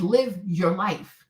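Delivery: live, your, life, each word drawn out very slowly; slow quoted advice. Shown as a demonstration. Repeating her own advice to a cheated wife, slowly and deliberately. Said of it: "I said".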